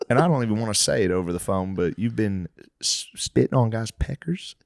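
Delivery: choked, halting delivery; upset father. Acted. Father phoning his daughter, haltingly upset. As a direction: falter as if too ashamed to say it.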